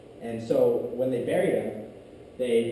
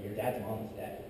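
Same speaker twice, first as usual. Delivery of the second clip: soft, subdued retold news; breaking bad news; 3 semitones lower, 8 dB quieter than usual. Mother telling her son his grandma died, hushed bad news. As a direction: imitate a mother gently letting it drop, much softer.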